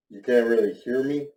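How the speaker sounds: talking through a mask; muffled behind a face mask. Real, not acted. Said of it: "can't really hear me in this mask".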